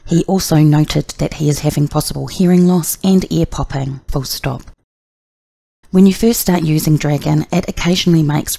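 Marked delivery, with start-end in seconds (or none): 0.1-4.6 steady dictation pace; dictating. Shown as a demonstration. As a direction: dictate it clearly, commands included. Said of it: "let's dictate another sentence".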